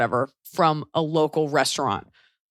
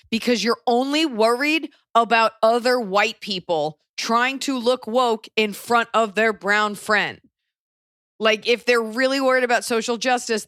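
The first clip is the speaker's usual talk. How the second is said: emphatic reassurance; 5 semitones higher than usual. Real, not acted. Firmly reassuring the white listener.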